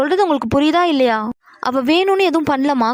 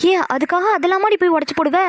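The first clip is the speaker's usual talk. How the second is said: higher-pitched, incredulous reproach; appalled disbelief; 5 semitones higher than usual. Acted. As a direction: question her sister in appalled disbelief. Sister appalled at the excuse. (நம்பமுடியாத வியப்போடு கேட்பது)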